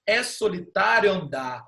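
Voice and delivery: "solitário andar" declaimed with the vowels linked; declamado, vogais juntas. Shown as a demonstration. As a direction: run "solitário andar" together, merging o and a. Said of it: "a gente fala assim, ó". ("solitário andar" declamado com as vogais emendadas)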